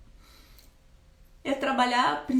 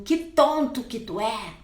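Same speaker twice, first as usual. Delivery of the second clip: contemptuous insult; 3 dB louder than usual. Retold or imitated. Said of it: "Chama o filho de tonto".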